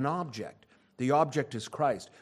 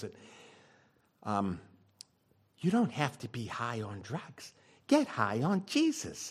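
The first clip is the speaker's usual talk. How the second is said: play-acted sugary, syrupy, sappy little voice; 3 semitones lower than usual. Retelling what a woman said while helping him through it: put-on little sappy voice. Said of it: "she said it in this little sappy sort of voice".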